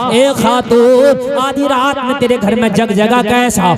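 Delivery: loud, driving sermon chant with stretched lines; fervent preaching. Acted. Preacher recounts Umar's night walk to the gathering, loud fervent preaching. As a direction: preach the story to the whole hall at full voice. Preacher tells Umar story aloud.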